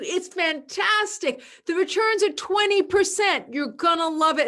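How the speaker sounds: eager, high sales pitch voice; salesperson pitch. Pretend. A pitch to a client, eager salesperson voice. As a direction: sell it hard and bright.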